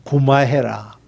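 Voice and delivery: low, soft Gyeongsang "고마해라" with the "고" said as "구"; 낮고 조용한 경상도 사투리로 "고마해라"; Gyeongsang dialect. Retold or imitated. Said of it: "저 경상도식의 표현이 있어요".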